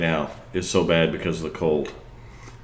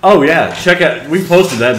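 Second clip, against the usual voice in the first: high, loud excited oh yeah; 9 semitones higher, 9 dB louder than usual. Real, not acted. Excited reaction to indoor skydiving.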